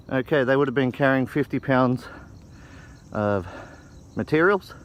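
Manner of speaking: breathless from the uphill walk; winded, talking between breaths. Real, not acted. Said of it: "I'm out of breath here".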